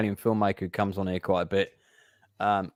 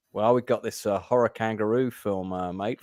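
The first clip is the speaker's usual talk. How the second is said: put-on Australian accent. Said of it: "suddenly doing Australian accent".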